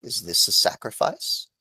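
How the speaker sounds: quiet, lightly voiced tree question; talking tree. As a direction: ask it softly like an old tree. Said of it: "as she says".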